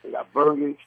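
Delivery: New York accent, plainly stated; terjemahan logat New York. Shown as a demonstration. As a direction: translate it into everyday New York talk. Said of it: "So translation".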